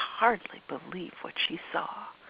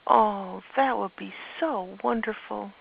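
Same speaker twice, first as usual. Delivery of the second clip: put-on delighted child; 5 semitones higher, 6 dB louder than usual. Olivia delighted.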